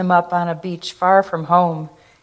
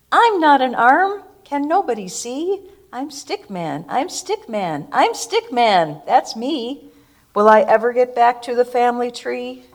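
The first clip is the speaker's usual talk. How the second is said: Stick Man pleading; 5 semitones higher than usual. Acted. Stick Man voiced in distress.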